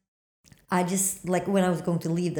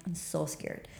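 scared; 2 semitones lower, 10 dB quieter, slower than usual. Retold or imitated. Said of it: "I was so scared there".

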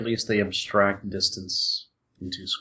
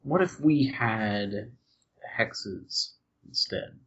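slow whisper; 5 dB quieter, much slower than usual. Pretend. Teasing suggestion about hexes.

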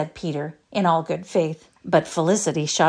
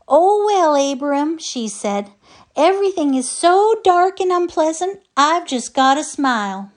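put-on high, louder bright little old lady; cheerful old wife; 11 semitones higher, 6 dB louder than usual. A narrator's reading. Old wife answers her grumpy husband, cheerful. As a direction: beam it out, sunny and unbothered. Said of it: "still Missus Davidson smiled".

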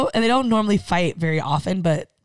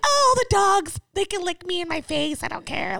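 put-on white girl voice; 11 semitones higher than usual. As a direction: gush like a dog-crazy white girl, trailing off. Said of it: "such a white girl".

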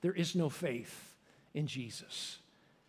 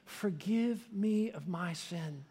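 earnest prayer; slower than usual. Retold or imitated. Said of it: "I called out on the name of Jesus".

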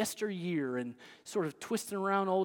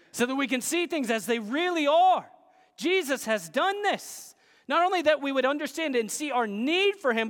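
emphatic pulpit delivery; forceful preaching; 6 semitones higher, 6 dB louder than usual. Acted. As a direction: build momentum toward the promise.

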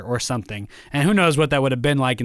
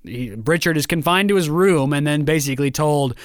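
normal talking voice

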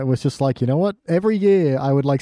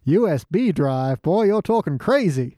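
mock baffled old-timer; 4 semitones higher than usual.

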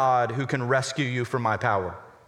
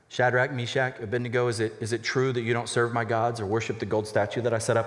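calm; 4 semitones lower than usual. Acted. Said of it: "I said that kind of calm".

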